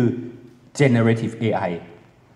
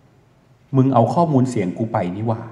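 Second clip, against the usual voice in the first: suspicious realization; 2 semitones lower, slower than usual. Pretend. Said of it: "ถ้าเราเอ๊ะสักนิดนึง".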